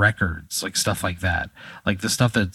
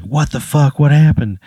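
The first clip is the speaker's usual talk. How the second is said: higher, louder alarmed questions; a wife's rising panic, acted out; freaking out; 4 semitones higher, 4 dB louder than usual. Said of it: "very upset and freaking out".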